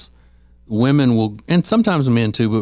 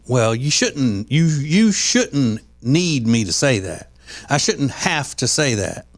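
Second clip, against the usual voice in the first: resentful; 3 semitones higher, slower than usual. Retold or imitated. Mimicking a resentful wife.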